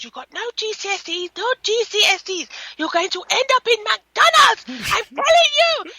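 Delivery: retold telling-off, rising in pitch; scolding dad. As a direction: build it up like an exasperated dad. Retold dad berating his son.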